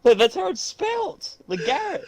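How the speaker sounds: laughing. Real, not acted. Defends reading while laughing.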